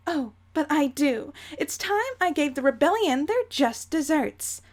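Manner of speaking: prim, menacing matriarch; theatrical villainess resolve; Jane voice. Acted. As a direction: vow payback in a lightly affected ladylike voice. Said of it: "my Jane voice is slowly turning into Dolores Umbridge".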